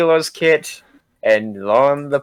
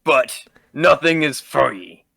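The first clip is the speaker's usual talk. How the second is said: shopkeeper voice; 4 semitones higher than usual. Acted.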